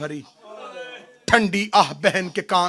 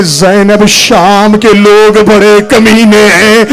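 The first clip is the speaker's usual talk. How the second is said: tearful; 12 dB louder, slower than usual. Acted. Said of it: "Hussain रो के कहते".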